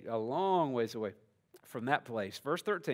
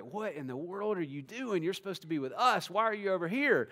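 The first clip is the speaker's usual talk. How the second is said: rebuking mother; 4 semitones higher than usual. Retold or imitated. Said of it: "it sounds like a rebuke from Mary".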